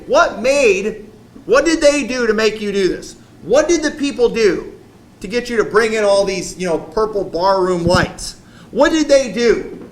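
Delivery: hammed-up furious preacher demanding answers; angry Moses. Moses voiced confronting young pastors.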